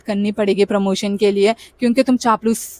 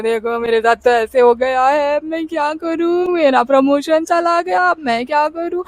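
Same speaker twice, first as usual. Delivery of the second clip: mock crying complaint; 3 semitones higher than usual. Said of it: "रो रही हूँ, उनको सुना रही हूँ".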